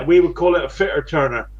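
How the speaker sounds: fitter turner in a West Country burr; West Country accent. Real, not acted. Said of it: "that's my West Country accent".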